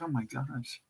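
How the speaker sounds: hushed disbelief. Retold or imitated. Stunned reaction retold.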